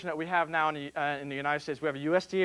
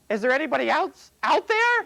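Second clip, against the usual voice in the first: punchline shout; 10 semitones higher, 7 dB louder than usual. Acted. Punchline, man calls out again.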